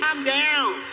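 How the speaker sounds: alarmed mock shout. She begs the man making threats, in an alarmed shout. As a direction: imitate her urgent pleading to settle down. Acts the woman calming his threats.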